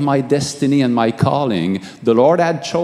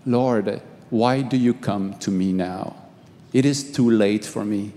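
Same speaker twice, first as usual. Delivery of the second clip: hushed despair; 5 semitones lower, 6 dB quieter than usual. Retold or imitated. Pleading with Jesus in vision.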